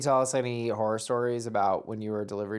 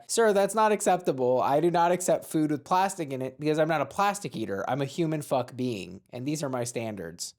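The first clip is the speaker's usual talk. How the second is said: hammed-up Karen. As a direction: huff about your standards at the waiter. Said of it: "you're about to defend this guy".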